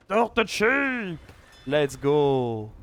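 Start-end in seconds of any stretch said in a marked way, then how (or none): 0.1-1.2 drawn-out hyped call, high; real caster hype; excited shout. Real, not acted. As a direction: shout the reveal with joy. Caster hyped at unit reveal.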